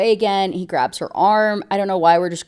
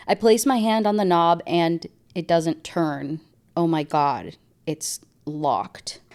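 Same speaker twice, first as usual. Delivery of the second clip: story reading. Acted. Reads book passage aloud.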